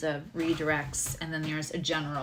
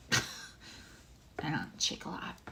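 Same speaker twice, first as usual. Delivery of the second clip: shaky laugh; 8 dB quieter, much slower than usual. Real, not acted. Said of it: "I'm shaking".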